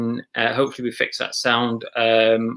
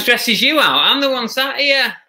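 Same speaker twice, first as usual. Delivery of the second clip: mock indignation; 10 semitones higher than usual. Real, not acted. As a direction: squeak out your outrage.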